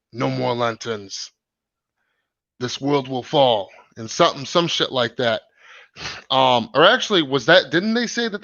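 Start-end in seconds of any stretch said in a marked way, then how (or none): 0.1-3.7 lightly imitated trailer villain, slow; slow, drawn-out quote in a hint of a villain voice; Steppenwolf. Host quoting a villain's trailer line, lightly voiced menacing impression. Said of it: "that part in the trailer where he says".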